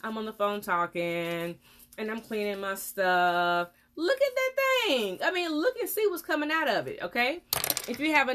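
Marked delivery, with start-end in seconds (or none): 0.0-3.7 lazily imitating a careless patient on the phone; breezy, half-hearted mock of someone chatting while cleaning; mock distracted patient. Dentist mocking a patient cleaning while on the phone, lightly voiced. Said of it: "don't just like". 3.9-6.7 urgent exclaim. Real, not acted. Dentist urging viewers to look.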